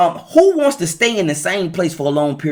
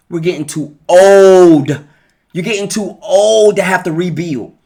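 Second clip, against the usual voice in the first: emphatic warning; 5 dB louder than usual. Real, not acted. Urgent warning to friends, family.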